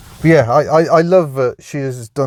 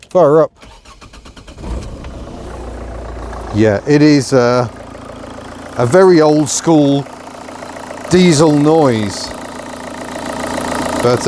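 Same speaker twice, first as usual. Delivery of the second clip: raised voice over engine noise; yelling over leaf blower; 3 semitones higher than usual. Real, not acted. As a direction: speak up over the racket. Engine running, leaf blower nearby.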